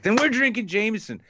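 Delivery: a hint of a keen drinking buddy; imitating Lacey. Imitating Lacey asking what they're drinking. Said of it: "She's like".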